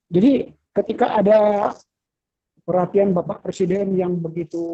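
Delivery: choppy call audio cutting out; breaking up. Real, not acted. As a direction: voice dropping in and out over a bad line. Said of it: "Suaranya putus-putus".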